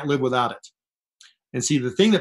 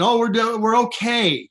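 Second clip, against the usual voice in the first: limp mock reply; 6 semitones higher, slower than usual. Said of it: "And they're saying".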